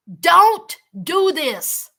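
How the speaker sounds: slow, emphatic plea, imitating the dad; retold begging. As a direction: implore him, weighting each word. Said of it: "the dad was begging and pleading".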